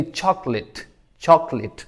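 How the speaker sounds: "चॉकलेट" ending in short "lit"; correct pronunciation. Shown as a demonstration. Teacher models it for students, careful "चॉकलेट" as choklit. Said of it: "बल्कि लिट".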